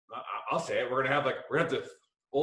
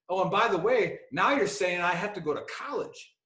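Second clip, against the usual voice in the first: higher, lightly mimicked accent, griping; King's Buddy Beckwith accent; 5 semitones higher than usual. Buddy objecting to going to college, griping in mimicked accent. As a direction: pile on the complaint in his accent. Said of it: "his Buddy Beckwith accent".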